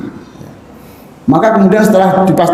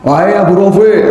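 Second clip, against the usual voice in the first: disguised voice. Retold or imitated. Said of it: "dia mengeluarkan suara".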